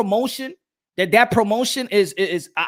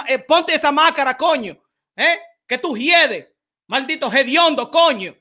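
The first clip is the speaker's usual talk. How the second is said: higher, heated Dominican Spanish taunting; a mock Dominican boxer yelling in Spanish; Rosario face-off trash talk; 3 semitones higher than usual. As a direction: spit Spanish insults across the face-off. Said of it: "I wanna see you in the face-off".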